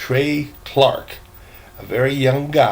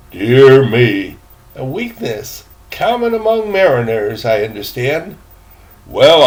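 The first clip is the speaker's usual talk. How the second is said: put-on a fussy, louder old gentleman's voice; proper old gentleman; 7 dB louder than usual. Gentleman asking the boy about his cabin, fussy and formal. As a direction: sound like a prim elderly traveller. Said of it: "When he had got his breath".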